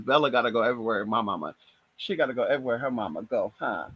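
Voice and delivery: low, soft, quick cooing to the pet. Real, not acted. Cooing to her dog Bella, low soft baby talk.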